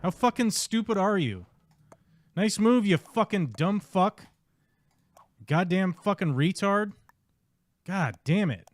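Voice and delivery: high, loud raging shouts at another player; furious yelling. Real, not acted. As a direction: scream abuse at the screen. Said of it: "I screamed at somebody".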